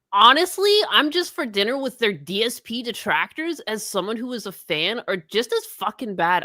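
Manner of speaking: lightly voiced aggrieved streamer; understated mimicry of a ranting streamer; P W R impression. Streamer scolding the detractors, lightly mimicked indignation. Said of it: "you do a P W R impression".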